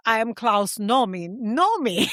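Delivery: a hint of a German accent. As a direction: imitate a singer's German accent lightly. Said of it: "Like, it was like this".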